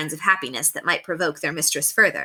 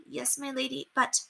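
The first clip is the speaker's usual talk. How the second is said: terrified maid; 7 semitones higher, 10 dB quieter than usual. Acted.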